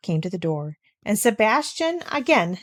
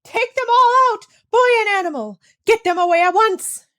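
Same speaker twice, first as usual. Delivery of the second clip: high, loud furious order; commanding; 13 semitones higher, 6 dB louder than usual. A narrator's reading. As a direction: bark the order at the servant. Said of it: "she commanded him".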